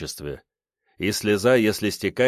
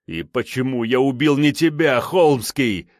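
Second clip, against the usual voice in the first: sobbing; 4 semitones higher, 4 dB louder than usual. A narrator's reading. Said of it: "навзрыд спросил убийца".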